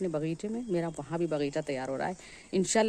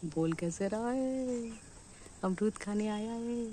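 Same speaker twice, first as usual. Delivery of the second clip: slow, higher-pitched singsong; drawn-out cooing; 3 semitones higher, slower than usual. Real, not acted. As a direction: stretch the endings out slowly. Cooing about the visiting parrot.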